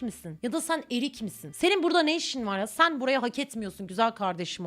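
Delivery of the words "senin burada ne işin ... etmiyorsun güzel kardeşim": mock scolding melon.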